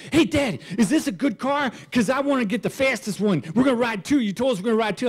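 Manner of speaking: eager son's voice. Retold or imitated. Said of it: "he goes".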